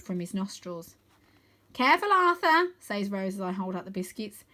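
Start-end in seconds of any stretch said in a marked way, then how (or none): 1.7-2.7 put-on higher, louder warning girl voice; girl warns a boy near a dragon; girl's warning. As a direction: warn him sharply as Rose. Girl Rose warning Arthur.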